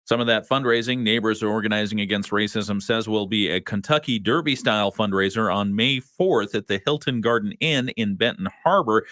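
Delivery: measured radio newsroom delivery; news read. Real, not acted. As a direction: read it as a local news anchor. Reads the local news.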